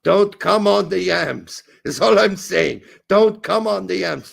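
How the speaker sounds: put-on renewed, forceful comic German accent. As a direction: push the mock German accent hard and loud. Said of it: "you're going back to your normal accent".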